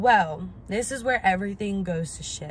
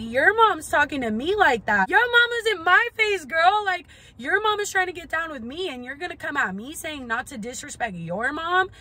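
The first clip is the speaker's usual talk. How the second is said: heated retort; 8 semitones higher than usual. Retold or imitated. Shouting back at friend.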